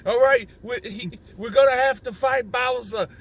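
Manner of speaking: lightly voiced old Jewish comedian; a hint of cranky old comic; Cranky Kong. An ape elder rallying for the Bowser fight, old Jewish comedian voice. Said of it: "That's what he sounds like".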